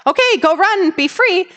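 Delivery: mock cheerful send-off to the dog; imitating a breezy owner unclipping the leash; carefree owner. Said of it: "made a conscious effort to be like".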